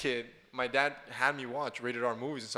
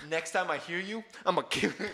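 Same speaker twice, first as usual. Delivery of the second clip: put-on kid tough guy threat; 6 semitones higher than usual. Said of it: "I grab him by the neck, and I'm like".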